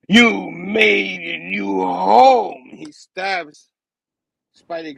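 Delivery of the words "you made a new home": loud, high, very slow cry; hammed-up dramatic accusation; acted anguished outburst. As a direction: drag out each word in a theatrical wail. Acted outburst before stabbing.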